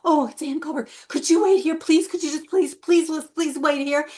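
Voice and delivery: lightly voiced jittery fan begging her to wait; nervous fanboy. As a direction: plead as an anxious fan. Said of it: "really, really nervous and, like, being kinda anxious".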